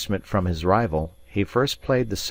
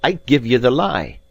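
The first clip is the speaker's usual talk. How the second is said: hot anger; 6 semitones higher, 7 dB louder than usual. Acted. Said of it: "the blood starting to his face".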